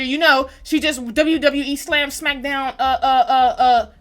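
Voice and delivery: loud, laughing stammer; cracking up mid-story. Real, not acted. Streamer recounting the slam, laughing loud.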